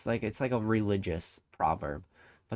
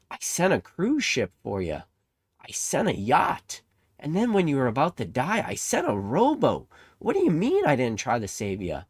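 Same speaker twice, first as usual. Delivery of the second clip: raised, slowed, louder listing of rescues; exasperated God; 4 semitones higher, 3 dB louder than usual. Acted. God at the pearly gates, exasperated with the drowned man. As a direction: spell it out to a stubborn fool.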